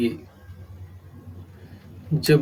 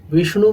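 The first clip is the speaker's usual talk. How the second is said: विष्णु with the वि hit harder and higher; stress on first syllable; 4 semitones higher, 4 dB louder, faster than usual. Shown as a demonstration. A teacher showing students where विष्णु is stressed, वि pressed. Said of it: "वी पर बलाघात है".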